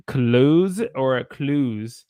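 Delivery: slow "close" versus "clues"; contrasting pronunciations. Shown as a demonstration. Teacher asking students which pronunciation. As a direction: set "close" against "clues" slowly. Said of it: "Do you pronounce this word as".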